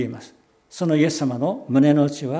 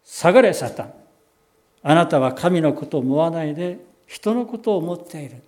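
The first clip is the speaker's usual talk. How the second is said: loud, commanding rebuke; stern rebuke; 6 dB louder than usual. Retold or imitated. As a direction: rebuke Satan sharply and loudly. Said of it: "ペテロを叱って". (力強く叱りつける声で)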